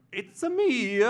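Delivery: Katharine Hepburn. Acted. Movie star announcing herself, high grand impression. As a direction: trumpet your own name in a high voice. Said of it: "Katharine Hepburn".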